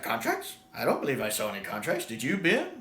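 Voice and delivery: a light feigned-innocent Doctor; lightly voiced sly Doctor. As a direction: play dumb sweetly. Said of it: "the Doctor's like".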